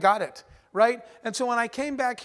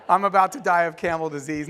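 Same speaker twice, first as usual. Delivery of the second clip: laughing; 3 semitones lower than usual. Retold or imitated. Retelling panic about camel disease.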